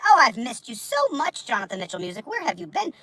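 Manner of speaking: high soft crooning welcome; sing-song high greeting. Acted. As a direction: croon a fond hello. Greeting a returning viewer.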